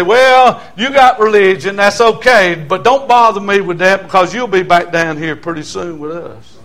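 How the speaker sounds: lightly voiced scoffing buddy; a hint of a scornful hometown friend; mocking old friend. Old friends mocking his salvation.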